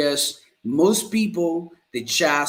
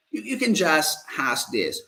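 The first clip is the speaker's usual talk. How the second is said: ordinary talk, nothing marked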